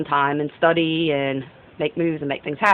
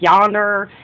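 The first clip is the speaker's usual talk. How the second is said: country yonder. Shown as a demonstration. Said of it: "they say stuff like".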